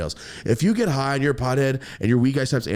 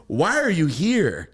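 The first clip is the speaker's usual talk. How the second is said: blunt question; 7 semitones higher, 4 dB louder, slower than usual. Retold or imitated. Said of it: "And I said it to him like that".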